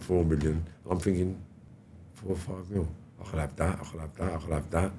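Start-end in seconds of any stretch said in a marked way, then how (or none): 2.1-4.9 tempted murmur. Real, not acted. Tempted by the money.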